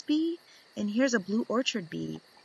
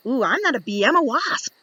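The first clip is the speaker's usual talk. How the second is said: perky wasp voice; 3 semitones higher, 6 dB louder, faster than usual. Acted. Voicing a wasp character.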